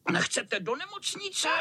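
vysoký kočičí hlas se smíchem v hlase; vysmát se klukům; posměšně. Acted. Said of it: "chechtal se zlý kocour". (zlý kocour se chechtá klukům)

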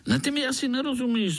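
high, quick grinning mosquito; jolly mosquito grinning at a spider. Acted. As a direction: tease the little spider, fast and high.

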